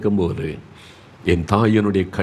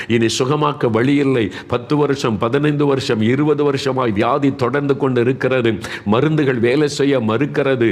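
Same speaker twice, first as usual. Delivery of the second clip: raised, urgent preacher's pitch; fervent preaching; 5 semitones higher than usual. Real, not acted. Preacher addressing the long-term sick, fervent preaching. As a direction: press on in an unbroken sermon build.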